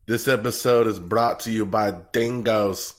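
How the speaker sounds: slow, badly faked Australian sponsor read; terrible Australian accent. Host joking about the show's sponsor, bad Australian accent. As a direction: attempt an Australian accent and miss. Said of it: "that is a terrible accent".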